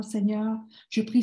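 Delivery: usual speaking voice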